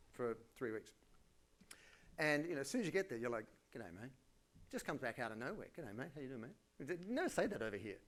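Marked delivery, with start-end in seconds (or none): 3.7-4.1 soft, barely opened mouth mumble; low-key, quiet Australian mumble; mumbled Aussie greeting. Acted. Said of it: "not supposed to open your mouth". 5.8-6.6 soft mumble through a barely open mouth; under-the-breath Australian hello; mumbled Aussie greeting. Acted. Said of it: "not supposed to open your mouth".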